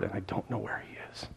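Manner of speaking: tearful whisper at the empty tomb. Acted. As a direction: let the words fall to a broken whisper. Grieving Mary at empty tomb.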